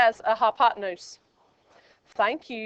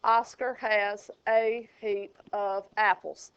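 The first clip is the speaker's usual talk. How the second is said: slow mnemonic recital; 3 semitones lower, 5 dB quieter, slower than usual. Shown as a demonstration. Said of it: "Watch this".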